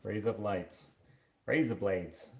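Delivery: half-hearted Australian accent, dropping the r; Australian accent attempt. Shown as a demonstration. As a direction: try an unconvincing Australian accent. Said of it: "I can't do a good Australian accent".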